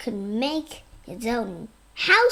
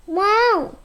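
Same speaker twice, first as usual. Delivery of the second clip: higher and louder, an amazed exclamation; excited wow; 7 semitones higher, 7 dB louder than usual. A narrator's reading. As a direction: let the wow burst out in delight. Man sees finished treehouse.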